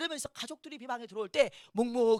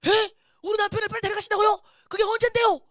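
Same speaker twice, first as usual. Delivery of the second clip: high, loud startled questions; alarmed disbelief; 10 semitones higher, 13 dB louder than usual. Retold or imitated. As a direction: cry out as if shocked by dreadful news. 꿈속에서 남편 소식에 놀라 되물음. (깜짝 놀라 큰 소리로 되묻기)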